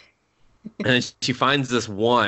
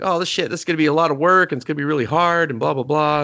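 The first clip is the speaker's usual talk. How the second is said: fast, louder, higher mock panic; 4 semitones higher, 4 dB louder, much faster than usual. Goddess dreading the hard job, fast mock panic. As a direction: rattle it off like a flustered goddess. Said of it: "she's panicking".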